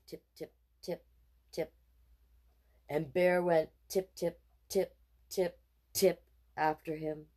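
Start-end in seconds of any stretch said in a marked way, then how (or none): 0.1-1.7 much softer tip tip; soft tiptoe. Acted. Boy tiptoeing away from the bear, very softly. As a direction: tiptoe it quietly.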